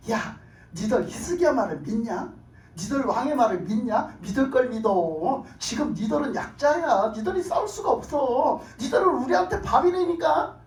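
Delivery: belittling taunt, stretched out then rising; imitated scornful army herald; mocking taunt. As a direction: talk down to a helpless enemy. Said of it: "희롱을 하는 거예요".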